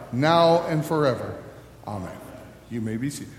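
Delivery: solemn liturgy read by the pastor; liturgical leading. Acted. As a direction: lead the congregation through confession, measured and solemn. Absolution, prayer, blessing.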